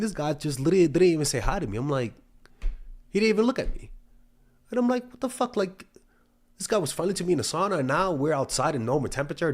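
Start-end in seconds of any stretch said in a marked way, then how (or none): 3.1-9.5 much higher, incredulous voice; high-pitched comic indignation; mock bewilderment. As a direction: squeak it out in disbelief. Acting out his baffled reaction to snub.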